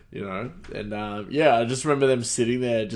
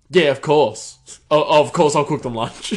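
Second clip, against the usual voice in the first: giddy fan reply; 5 semitones higher, 9 dB louder than usual. Retold or imitated. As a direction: gush like a starstruck fan. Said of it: "so giddy".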